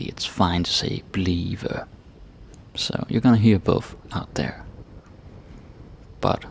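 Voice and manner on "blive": "blive" said slowly in two full syllables; careful, slow "blive". Shown as a demonstration. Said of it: "if you say it very slowly".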